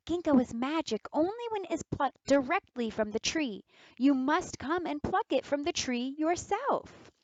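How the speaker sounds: put-on clever girl's voice. Clever girl tricks the wolf.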